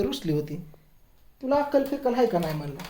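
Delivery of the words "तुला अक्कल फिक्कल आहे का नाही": quick, mock-angry scold at the wife; wife being scolded for locking the bathroom, a mild mock scold; retold scolding. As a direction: replay the telling-off, fast and a bit higher. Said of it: "मी खवळलं होतं तिला".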